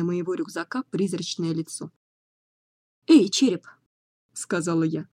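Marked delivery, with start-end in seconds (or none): 3.1-3.7 calling out. Acted. Calling out to the skull.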